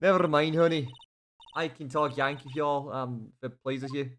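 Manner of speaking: loud, brash Southern woman; country woman. Acted. Player voicing Lotta threatening the lawyer, brash Southern drawl. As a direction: talk big like a feisty country gal.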